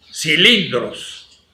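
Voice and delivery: ordinary delivery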